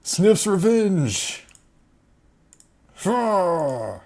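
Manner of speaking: high, slow victory cheer; triumphant cheer. Real, not acted. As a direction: gloat over the win. Celebrating a big hit.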